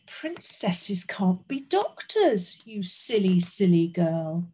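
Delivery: slow, lightly voiced stern king; scolding king. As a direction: put her down slowly, word by word.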